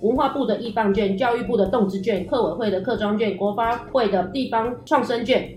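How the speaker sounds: rattled off without a breath; all in one breath. Shown as a demonstration. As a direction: list every item in a single breath. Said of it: "都不换气耶".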